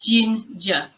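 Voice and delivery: "ginger" split as JIN, juh; syllable-by-syllable model. Shown as a demonstration. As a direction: break "ginger" into two clear syllables. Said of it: "It is pronounced".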